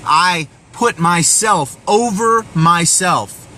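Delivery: a general on the hill, refusing to give up his men, in mock defiant yell; defiant battle cry. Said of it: "he screams in the face of the enemy".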